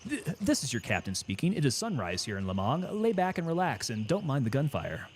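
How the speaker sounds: lightly voiced airline captain, a little softened; soothing pilot's voice. Captain calming passengers landing amid gunfire, mock-soothing pilot voice. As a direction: play a captain sounding in control. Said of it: "that kind of voice where it's real soothing".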